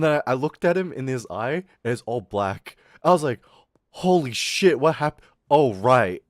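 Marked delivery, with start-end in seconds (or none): 3.9-6.2 shocked. Retold or imitated. Seeing the classmate's black eye, loud startled reaction. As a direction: blurt it out startled, then catch yourself.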